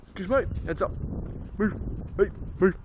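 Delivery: loud barked commands to clear a path; retold crowd shouting. Bouncer clearing a path through the crowd, loud calls. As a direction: push through a packed bar calling people out of the way. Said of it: "I'm just shouting".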